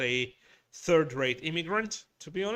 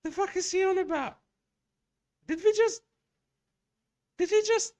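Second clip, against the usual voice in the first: much higher, fast and a little louder, incredulous; stunned disbelief; 5 dB louder, faster than usual. Retold or imitated. Retelling how he and his wife reacted to the posh man, in high shocked disbelief. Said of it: "we looked at each other with shit like".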